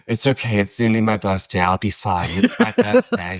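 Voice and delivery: mock self-soothing. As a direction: soothe yourself, then break into a wail. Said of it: "walking along going like".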